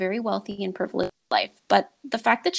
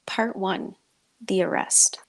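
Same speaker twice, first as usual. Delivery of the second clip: hushed, spooky announcement of the title; dramatic whisper; slower than usual. Acted. Storyteller whispering the chapter title to her co-host.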